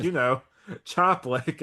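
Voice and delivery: a slow, laughing insistence. Retold or imitated. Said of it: "And she's like".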